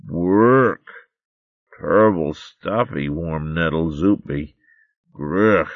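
slow, yucky complaint; a little mole going yuck; disgusted mole babe. Acted.

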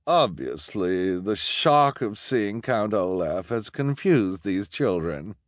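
slow, smug explanation; condescending. Acted. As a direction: talk down to the council. Luciana condescends.

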